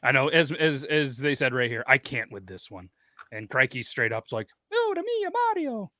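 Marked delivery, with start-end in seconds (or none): 4.7-5.9 high, cartoonish Italian voice; fake Italian accent. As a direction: squeak it out like a video game plumber. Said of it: "I think that's what he sounded like".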